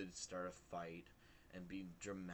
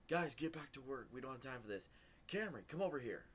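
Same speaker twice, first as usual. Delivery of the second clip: higher, louder call from far away; calling across the hall; 6 semitones higher, 5 dB louder, faster than usual. Retold or imitated. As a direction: shout it down the hallway. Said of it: "from clear across this".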